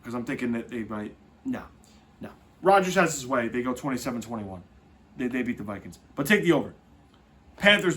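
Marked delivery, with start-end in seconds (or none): none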